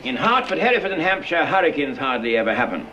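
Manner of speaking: every H in "Hampshire" clearly sounded; connected model line, crisp H on "hurricanes"; model H sounds. Shown as a demonstration. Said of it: "repeat that after me".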